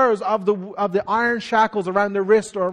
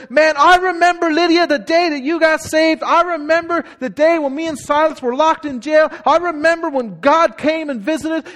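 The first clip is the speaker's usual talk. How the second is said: higher, eager voicing Paul; fond excited recall; 4 semitones higher than usual. Paul tells Lydia of her salvation, excited. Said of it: "and he says".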